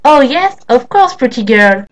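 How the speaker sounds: loud, eager, gullible yes. Acted. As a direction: jump at the offer. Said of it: "The credulous Duppy answered".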